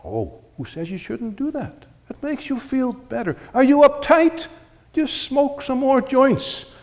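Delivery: high, coaxing tempter voice; seductive devil voice. Acted. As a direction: lure them in, easy and sly. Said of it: "whisper seductive words".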